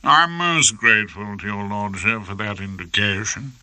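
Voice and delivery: a hint of an oily butler; lightly voiced obsequious counsel; butler-like deference. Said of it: "his well-known butler passing the sherry act".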